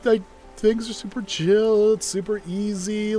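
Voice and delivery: bright, high, mock-cheerful gush. Gamer mocking her early impression, high and gushing. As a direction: gush like a naive first-time player. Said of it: "I was like".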